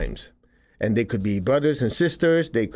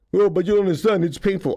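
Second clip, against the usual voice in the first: whiny objector; 6 semitones higher than usual. Pretend. Imagined listener objecting again.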